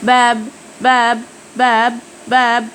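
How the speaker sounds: باب said slowly, final b closed and unreleased; slow باب with a clipped stop at the end. Shown as a demonstration. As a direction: Korean batchim p in باب. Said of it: "زي باب".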